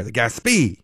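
"Gaspee" as gas-PEE; stress on second syllable. Retold or imitated. Host quoting how the narrator reads it, "Gaspee" stressed gas-PEE. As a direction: put the weight on the end of "Gaspee". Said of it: "he's just reading in there".

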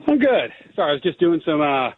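winded after pull-ups, catching breath. Real, not acted. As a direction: talk while still panting a bit. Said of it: "so I'm a little out of breath".

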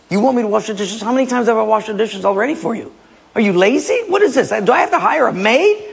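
high, fast complaining rant; mock angry husband. Husband complains angrily in skit.

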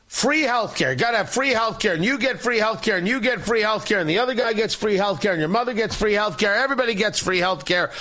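toned-down giveaway host, quick rolling list without the screaming; Oprah impression. Radio host mocking free healthcare promises, restrained talk-show giveaway impression. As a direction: lightly imitate a talk-show host handing out prizes. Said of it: "I'm doing an Oprah impression".

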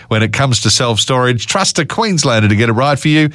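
upbeat live radio ad read. Acted. Host reads live ad.

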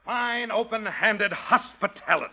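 slow, laughing sarcasm; mock her hospitality through a laugh; sarcastic laugh.

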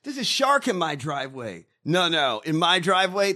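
half-joking crazed ranting; mock lunatic. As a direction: rave a little about the driveway shark. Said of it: "I sound like a lunatic today".

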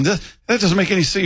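retold protest, pitch lifted; mock bafflement. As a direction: act out someone confused and objecting. Acting out the confused colleague.

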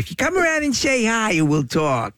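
a hint of an eight-year-old at play; little girl voice. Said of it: "Can you imagine, like, an eight".

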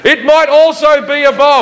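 high, sheepish mock-innocent line. Comedian answering the guard, high mock-innocent. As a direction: squeak it out innocently. His reply, acted.

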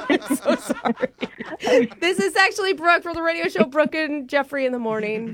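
radio voice. Real, not acted. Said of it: "my dumb radio voice".

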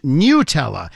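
"Nutella" drawn out with NEW as first syllable; NEW-tella pronunciation. Shown as a demonstration. Host relays Sharon's vote from the text line, slow NEW-tella. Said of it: "N E W dash T E L L A".

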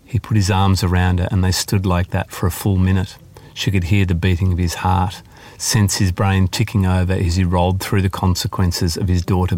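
measured audiobook narration of a novel passage; story reading. Acted. Author reading her climate novel aloud to the interviewer, in steady narration. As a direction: read it like a novelist sharing her own chapter.

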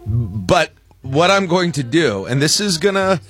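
ordinary talk

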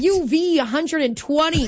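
mildly exaggerated mock warning; sarcastic. Host inflating the forecast for her co-host, sarcastic. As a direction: pile on the fake heatwave alarm. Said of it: "That's sarcasm for people who don't know".

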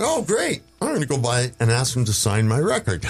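high, eager inner voice; a fan thinking he's struck luck; excited thought. Retold or imitated. Fan hearing his idol lives nearby, eager. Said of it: "And I thought".

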